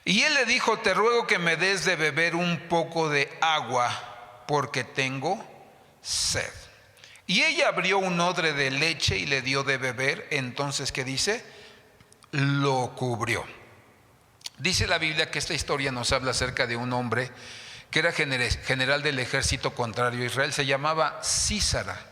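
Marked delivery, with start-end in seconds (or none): 0.0-10.3 declaimed Bible verse, projected and measured; scripture reading. Acted. Reads scripture aloud to congregation. 21.2-22.0 Sísara with the accent on the first I; stress on first syllable. Shown as a demonstration. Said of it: "con acento en la I".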